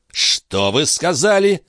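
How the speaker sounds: high, slow menacing challenge; threatening cry. A narrator's reading. Philippe threatening Balsamo over his sister, high slow menace. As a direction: dare him to repeat it. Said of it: "с угрозой в голосе вскричал Филипп".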